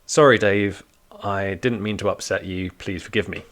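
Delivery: mock-sincere kid's apology; dutiful apology. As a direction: recite a sorry as if you mean it. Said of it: "could you say it like you mean it".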